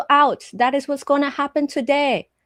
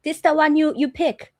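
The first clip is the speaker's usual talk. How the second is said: put-on Vietnamese accent; 5 semitones higher than usual. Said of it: "it's just like".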